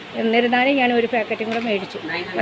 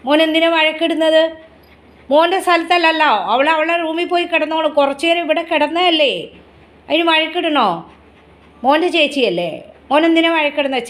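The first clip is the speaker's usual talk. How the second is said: slightly raised pet-talk pitch; doting, lightly reproachful questioning; gently chiding a pet; 3 semitones higher than usual. Real, not acted. Reasoning with pet about quarrel.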